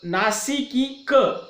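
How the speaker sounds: नासिकी क in separate, weighted syllables; stressed syllables. Shown as a demonstration. Teacher pointing out the stressed sounds, syllable by syllable. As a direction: pick out each sound of नासिकी क. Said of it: "थोड़ा सा बल देकर उच्चारित करते".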